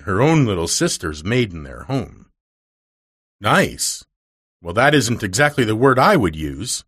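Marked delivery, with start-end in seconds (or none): 3.4-6.8 stiffly. Acted. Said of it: "rejoined Miss Polly stiffly".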